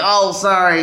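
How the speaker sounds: light mock apology from a local; apologetic local. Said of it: "They're like".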